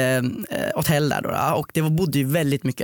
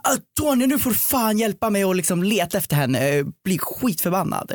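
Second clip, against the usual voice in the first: imitated furious boyfriend; 5 semitones higher than usual.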